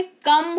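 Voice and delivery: कम said with a short a vowel; wrong pronunciation. Shown as a demonstration. Teacher showing a second common mistake: कम with a short vowel. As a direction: say कम like the Hindi word. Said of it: "कम भी नहीं होता है".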